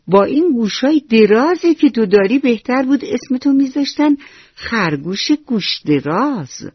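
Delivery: mocking frog. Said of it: "با صدای بلند خندید و گفت".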